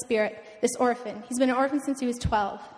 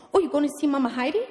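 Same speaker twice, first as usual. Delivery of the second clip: quick, rising question in a pastor impression; lightly voiced excited pastor; Pastor Shangwei; 3 semitones higher, 4 dB louder, faster than usual. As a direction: imitate an eager, funny pastor. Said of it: "he talks like this".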